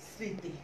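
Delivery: স্মৃতি said as সৃঁতি, the ম silent, the first sound nasal. Shown as a demonstration. Teacher demonstrating স্মৃতি with a nasal সৃঁ. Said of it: "দেখো আনুনাসিক উচ্চারণ করেছি".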